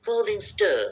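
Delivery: slow, careful American English accent demo; slow American English accent read-aloud. Shown as a demonstration. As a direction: read it slowly in an American accent for students to repeat. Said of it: "দুই অ্যাকসেন্টই আমি উচ্চারণ করবো, আমেরিকানটাও করবো".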